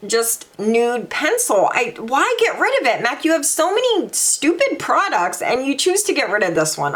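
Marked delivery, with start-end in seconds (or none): 1.7-6.9 annoyed rant. Real, not acted. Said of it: "I'm pissed".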